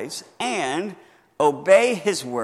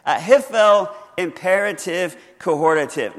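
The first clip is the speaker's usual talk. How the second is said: louder, hiphel imperative cohortative hammered out; emphatic repeat; 2 semitones higher, 7 dB louder than usual. Shown as a demonstration. Pastor teasing a bored congregation, repeating the term louder. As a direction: say the term again with force. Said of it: "How many of you care?".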